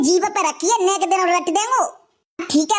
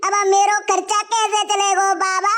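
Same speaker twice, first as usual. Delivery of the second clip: mock crying. Daughter-in-law keeps lamenting.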